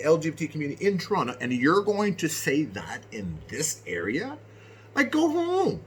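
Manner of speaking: high, loud, heated telling-off; retold furious rant. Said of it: "And I'm like".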